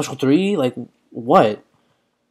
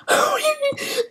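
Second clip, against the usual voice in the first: very high-pitched wordless squeal; sudden thin high squeal; 4 dB quieter than usual. Real, not acted. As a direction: squeal in alarm. Reacts to nearly being knocked out.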